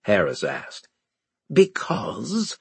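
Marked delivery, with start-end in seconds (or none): 1.5-2.6 higher words pushed through teeth; through clenched teeth. Acted. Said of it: "said between clenched teeth".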